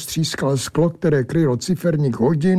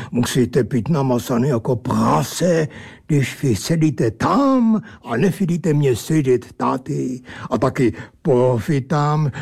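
lightly voiced drunken angel; odd angel voice. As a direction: grumble it like a tipsy oddball. Angel character speaks.

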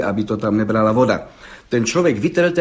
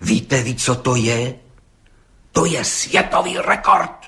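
excited blurt; slower than usual. A narrator's reading. Gendarme Hejda blurting the record to the judge, excited. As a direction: burst out with the big news. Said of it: "vyhrkl rozčileně".

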